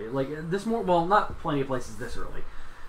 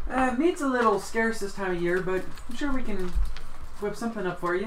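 higher, friendly serving voice; cheerful dragonborn waitress; 8 semitones higher than usual. Acted. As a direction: play a polite cafe server. GM holds dragonborn NPC voice.

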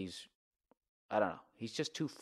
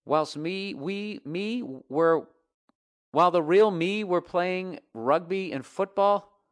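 slow, higher, drawn-out mock British reading; mock English accent; 6 semitones higher, 5 dB louder, slower than usual. Mocking an English listener's letter in a put-on British voice. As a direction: sneer through it like a pompous Englishman.

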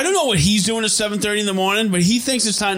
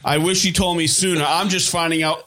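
robot voice. Retold or imitated. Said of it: "he'll sometimes talk like a robot".

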